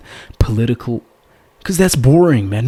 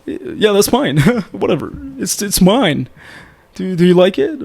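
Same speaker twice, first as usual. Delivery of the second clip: higher, eager show-off fishing for praise; bragging show-off; 6 semitones higher than usual. Shown as a demonstration. Coach mimics a guy bragging about his Lamborghini, eager. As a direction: show off the car and wait for her approval. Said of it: "You don't wanna be on a date like this".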